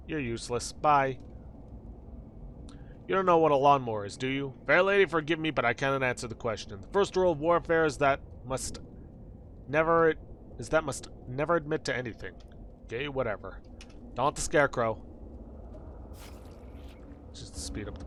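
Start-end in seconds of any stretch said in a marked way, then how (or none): 4.7-12.3 gallant, formal knightly voice; courtly knight. Acted. Knight excusing himself to fair lady, gallant formal voice. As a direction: declare it with mock-chivalrous gravity.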